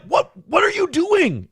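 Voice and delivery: retold alarm.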